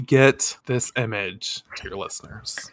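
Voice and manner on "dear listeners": hushed whisper to the listeners; conspiratorial whisper to the audience; whispered aside. Acted. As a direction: breathe it out like a secret aside. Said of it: "aside to the audience".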